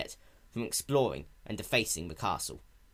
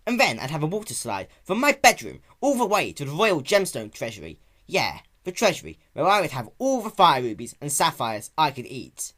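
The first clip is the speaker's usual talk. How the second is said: put-on high, louder boyish fantasy; excited daydreaming; 5 semitones higher, 6 dB louder than usual. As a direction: dream big and get carried away. Spike daydreaming aloud.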